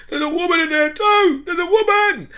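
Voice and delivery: urgent cry, still trapped; retold shout. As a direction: yell to the rescuers for the woman. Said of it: "he must have shouted out".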